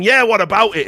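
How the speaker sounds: defiant mock challenge; defiant retort. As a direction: throw it back at him, daring. Retold facing up to muscleman.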